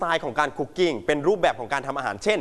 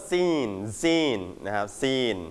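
"zine" drawn out as the stressed syllable; 5 semitones lower, much slower than usual. Shown as a demonstration. Teacher showing the class which syllable of cuisine takes stress, stressed zine. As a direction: dwell on "zine", stretching it out slowly. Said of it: "เน้นที่คำว่า zine".

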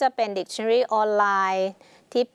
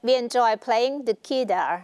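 slow example reading; 2 semitones higher, much slower than usual. Shown as a demonstration. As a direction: read the example slowly and clearly. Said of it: "teacher reads example slowly". (อ่านประโยคตัวอย่างช้าๆ ชัดๆ)

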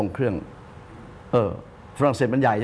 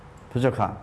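humble envoy; much slower than usual. Retold or imitated. Envoy answering the king.

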